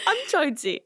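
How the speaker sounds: put-on baby voice. Shown as a demonstration. Wife tells friend how she talks when tired, baby voice. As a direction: say it like a little kid asking for sympathy. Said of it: "But I'll say it like a baby voice".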